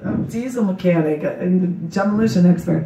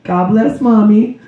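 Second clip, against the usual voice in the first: bedtime prayer; 2 semitones higher than usual. Retold or imitated. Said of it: "then I tell her the rest".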